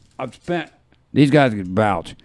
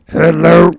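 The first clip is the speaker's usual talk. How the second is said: lightly raised gravelly-free crooner hello; impression of a singer; 6 semitones higher, 6 dB louder than usual. Host doing a singer for viewers, light impression. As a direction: greet folks like the singer, lightly. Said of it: "here's my impression of the singer"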